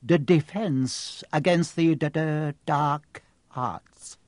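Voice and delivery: slow, reluctant stutter; stammered mutter. Acted. Quirrell naming his subject, reluctant stammer. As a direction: rather not say it aloud. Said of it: "muttered Professor Quirrell".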